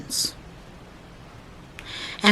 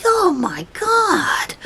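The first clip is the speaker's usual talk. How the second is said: breathless, slow stunned whisper of Oh, my God; shocked whisper; 13 semitones higher, much slower than usual. Retold or imitated. Fred realising the cat was a bobcat, shocked whisper.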